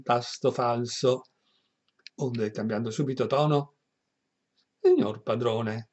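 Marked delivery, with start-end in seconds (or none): 4.8-5.9 moved voice. Acted. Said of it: "disse con voce commossa e da commuovere".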